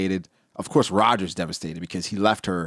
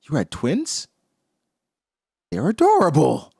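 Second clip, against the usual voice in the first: high, loud, gushing adorable; Garling's fake delight; 12 semitones higher, 4 dB louder than usual. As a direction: coo over the twins in a high voice. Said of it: "Garling says".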